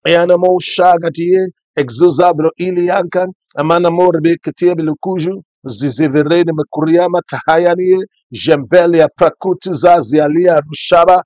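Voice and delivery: rapid, fervent tongues; speaking in tongues. Acted. Pastor praying in tongues for the church, fervent. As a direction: let the prayer language flow.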